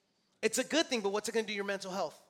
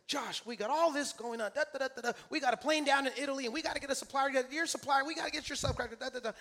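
higher-pitched rattled-off list of problems; frantic coworker; 5 semitones higher, faster than usual. Retold or imitated. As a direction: imitate a coworker in a mild flap. Frantic coworker listing problems, retold.

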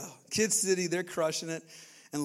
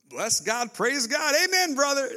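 mock churchy talk; 11 semitones higher, 5 dB louder than usual. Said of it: "people don't talk like that".

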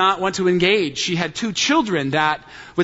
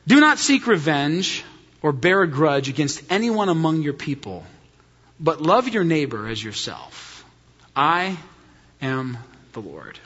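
solemn scripture reading; 3 semitones lower than usual. Acted.

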